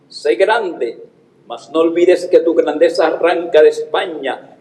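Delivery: full dramatic poetry declamation. Shown as a demonstration. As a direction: declaim it proudly to the audience. Recites the poem at graduation. (el niño declama en la graduación, con solemnidad)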